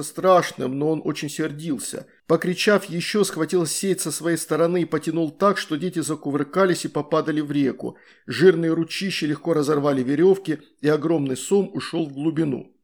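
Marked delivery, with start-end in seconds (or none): none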